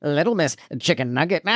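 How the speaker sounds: lightly voiced cartoon villain; a hint of cartoon Skeletor. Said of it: "I'm doing cartoon Skeletor".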